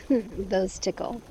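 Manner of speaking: slow, rising, laughing complaint; giggly. Acted. Woman whose feet are on the jets, giggling. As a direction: say it through a giggle.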